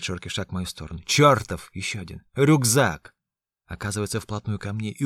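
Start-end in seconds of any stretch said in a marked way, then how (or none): 1.0-1.7 furious shout. A narrator's reading. Ян кричит, наступая. 2.3-3.1 furious shout. A narrator's reading. Ян кричит, наступая.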